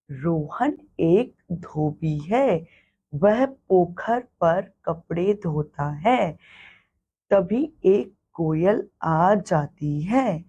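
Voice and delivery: a slow, clear classroom reading; slow reading aloud. Shown as a demonstration. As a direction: read the paragraph slowly for children. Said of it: "एक छोटा सा हम अनुच्छेद पढ़ते हैं".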